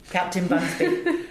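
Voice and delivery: a slow, laughing hint of a Welsh lilt on Captain Bunsby; light Welsh accent. Actor recalling the Welsh sea captain, lightly Welsh and amused. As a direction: drawl the name with a playful Welsh touch. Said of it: "we made him full-on Welsh".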